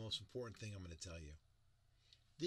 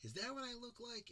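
high, disbelieving; surprised at hearing yourself; incredulous self-question; 13 semitones higher than usual. Retold or imitated. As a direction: ask it amazed, far up in the voice. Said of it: "you can sit here and going".

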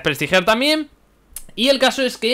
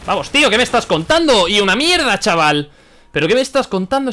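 loud, higher-pitched protest; indignant outburst; 4 semitones higher, 5 dB louder than usual. Real, not acted. Player protests "qué me estás contando", loud and indignant. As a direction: exclaim loudly in real disbelief.

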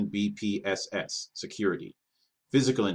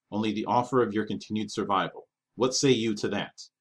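firm ultimatum. Acted. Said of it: "he stated with authority".

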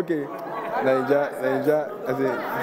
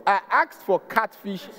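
indignant complaint; 8 semitones higher than usual. Retold or imitated. Customer complains to the waiter about the croaker, indignant and higher. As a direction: demand to know why you got croaker.

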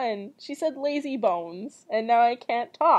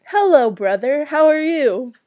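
loud, higher, sing-out hello; calling out a greeting; 4 semitones higher, 8 dB louder than usual. Real, not acted. Greeting the brother who interrupts the story, loud and high. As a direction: greet someone walking in, loudly.

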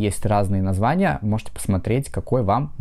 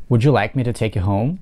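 would you like me to take you home with a rise at home; teacher models a yes-no question with a rising tune. Shown as a demonstration. Teacher demonstrating a rising question. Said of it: "два разных паттерна ударения".

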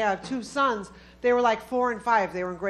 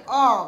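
bad ah; 7 dB louder than usual. Shown as a demonstration. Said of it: "the head goes down like".

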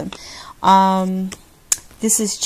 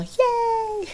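high squeaky yay, much higher; squeal; 4 dB quieter than usual. Real, not acted. Vlogger squealing over mail from Switzerland. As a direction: squeal with delight.

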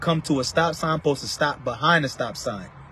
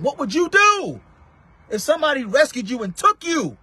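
raised pitch, urgent testimony to listeners; impassioned preaching; 9 semitones higher than usual. Real, not acted. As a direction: preach it in bursts, pitched high.

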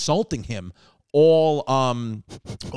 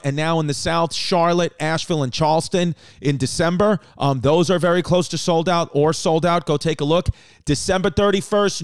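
steady announcer read of tour dates; show plug. Acted. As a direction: sell the tickets like an ad.

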